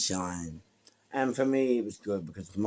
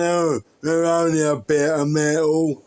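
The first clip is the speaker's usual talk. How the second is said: mock neighbour; 9 semitones higher, 12 dB louder than usual. Imitating neighbour's reply.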